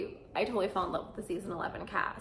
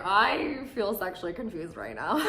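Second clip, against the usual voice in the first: laughing; 3 semitones higher, 4 dB louder than usual. Retold or imitated. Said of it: "and I just was like".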